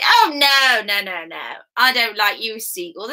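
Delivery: mean emperor's loud, falling "oh no"; criticising emperor. Acted. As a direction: scold the seagulls disdainfully. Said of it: "he'd criticise the seagulls".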